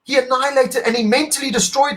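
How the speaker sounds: choked-up, tearful praise; voice breaking with emotion. Real, not acted. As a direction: fight the tears while you praise him. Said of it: "I got emotional".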